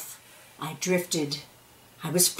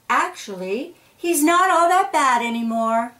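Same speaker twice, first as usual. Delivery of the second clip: friendly onlooker; 5 semitones higher than usual. Acted. Another seed corrects them.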